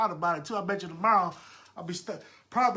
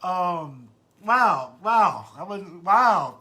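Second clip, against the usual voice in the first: overcome with emotion; 11 dB louder, much slower than usual. Real, not acted. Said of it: "I'm about to get emotional here".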